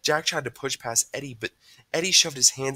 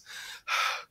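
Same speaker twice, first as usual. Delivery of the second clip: winded sigh; 5 dB quieter than usual. A narrator's reading. Panting after the chase.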